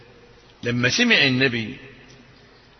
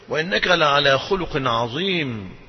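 reverent recitation; 2 semitones lower, 3 dB quieter, slower than usual. Acted. Reverent Quran quote.

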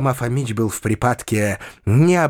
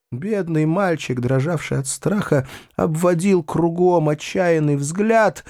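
plain reading voice

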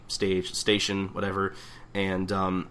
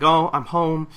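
higher, louder Brooklyn mom greeting; Brooklyn mother voice; 7 semitones higher, 6 dB louder, slower than usual. Retold or imitated. Otose comes home to the bar, louder Brooklyn mother greeting. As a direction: call out home like a New York landlady. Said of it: "I give her that voice".

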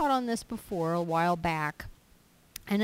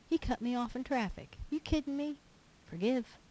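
higher, petty whining about traffic; mock complaint; 6 semitones higher, 4 dB quieter than usual. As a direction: poke fun at a trivial grievance. Mock complaint, then a one-word answer.

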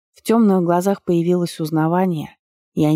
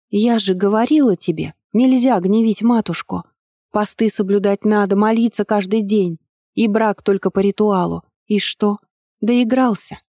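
higher-pitched acted telling-off; raised-pitch, nagging I-told-you-so; wifely scolding; 4 semitones higher than usual. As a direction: lecture him like an exasperated wife. Acted wife scolds the king.

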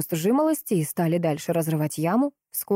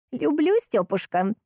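put-on tender old woman; 7 semitones higher, slower than usual. A narrator's reading. Старушка отвечает деду ласково.

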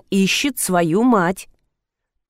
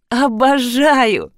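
delighted; 3 semitones higher, much slower than usual. Acted. Delighted answer to zefir question.

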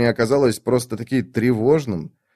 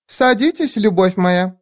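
higher, sweetly voiced lady; Lady Envy; 9 semitones higher than usual. A narrator's reading. Lady Envy welcomes the priestess, higher and sweet. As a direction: purr it as a gracious hostess.

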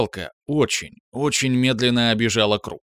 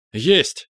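louder, blurted with a rising end; 4 semitones higher, 4 dB louder than usual. A narrator's reading. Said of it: "брякнул Корнеев".

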